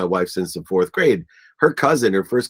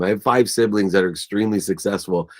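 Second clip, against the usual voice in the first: ordinary talk, nothing marked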